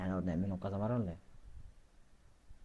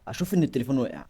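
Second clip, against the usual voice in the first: acting scared; 4 semitones higher, 9 dB louder than usual. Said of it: "المفروض بقى ان انا اكون بس ان انا خايف".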